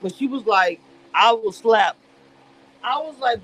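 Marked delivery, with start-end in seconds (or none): 1.1-2.0 mock threat. Retold threat in fight scene.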